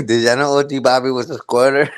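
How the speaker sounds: words pushed through laughter; laughing while teasing. Real, not acted. Telling chat about O G, laughing through it. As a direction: giggle through the gossip.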